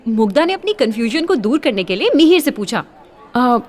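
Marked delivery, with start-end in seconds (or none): 3.3-3.6 startled. Acted. Startled at Mihir.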